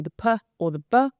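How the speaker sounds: p and b said alone as "puh" and "buh"; p as puh, b as buh, not letter names; isolated onset sounds. Shown as a demonstration. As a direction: sound out the p and the b as bare consonants with a short schwa. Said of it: "the onset, which in those, that example would be".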